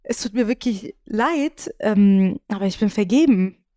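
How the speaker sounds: slow, weary, flat rejection; tired and worn out. Retold or imitated. Turning down the salesman, slow and weary. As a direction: let him down slowly and wearily. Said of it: "und wirklich so in dieser Tonlage".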